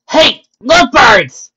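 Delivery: loud, high, drawn-out holler; teasing call. Acted. Friend heckling two ponies from behind, loud teasing holler. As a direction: call out slowly to tease them.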